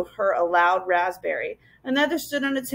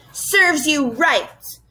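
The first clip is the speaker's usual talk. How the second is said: high, slow spiteful screech; nasty scream; 5 semitones higher, much slower than usual. A narrator's reading. Gaboon racing up to a crying girl, screaming nastily. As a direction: jeer it, stretching every word. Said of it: "screamed nastily".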